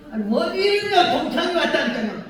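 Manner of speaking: high, laughing retort; mock indignant answer to husband. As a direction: snap back at him, amused.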